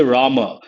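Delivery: put-on Rama with the boy's name sound. Shown as a demonstration. Teacher shows the boy's Rama. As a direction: say Rama as for a boy. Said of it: "For a boy".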